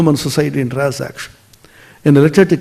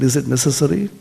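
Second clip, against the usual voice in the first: smiling reply; 4 semitones lower, 4 dB quieter than usual. Acted. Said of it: "Swamiji smiled and said".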